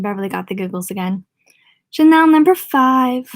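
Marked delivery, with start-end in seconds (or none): 1.9-3.3 mock posh. Beverly mocking rich girls' perfume.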